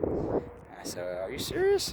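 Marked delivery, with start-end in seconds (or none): 1.2-1.9 disbelieving squeak. Retold or imitated. Stunned at a stranger's kindness, squeaky disbelief. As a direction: voice shoots way up in disbelief.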